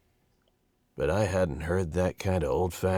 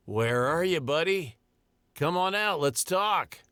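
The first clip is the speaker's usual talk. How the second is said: much higher, sing-song calling out; coaxing call; 12 semitones higher than usual. Acted. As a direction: coax it out of hiding. Narrator calling to the creature.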